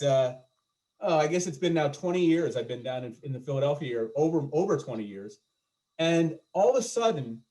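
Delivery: usual speaking voice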